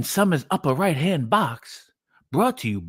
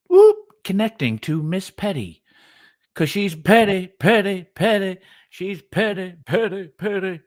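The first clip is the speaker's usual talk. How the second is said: lightly voiced rapper chant, a bit louder; rhythmic mock rapper repeating the word; rapper impression; 3 semitones higher, 4 dB louder than usual. Friend does a light mock rapper bit about Miss Petty. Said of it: "A I rapper impersonation".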